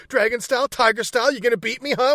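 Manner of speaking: high-pitched, cocky retold taunt; mock taunting challenge. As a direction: goad him like a kung fu loudmouth. Acting out a fighter's taunt.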